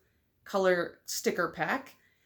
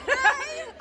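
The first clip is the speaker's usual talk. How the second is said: high giddy laugh; excited giggle; 3 dB louder than usual. Real, not acted. Vlogger laughing after the greeting, high giddy giggle. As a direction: laugh with delight. After meeting her friend.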